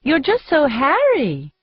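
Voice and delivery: put-on high piping Capitol accent; chirpy Capitol accent, mock pity; silly Capitol accent. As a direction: coo it in a prissy Capitol accent. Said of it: "she pipes in her silly capital accent".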